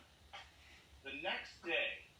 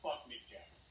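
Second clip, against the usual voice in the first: indignant mock comeback; mildly heated self-defence; retold anger; 5 dB quieter than usual. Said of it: "finally I got mad".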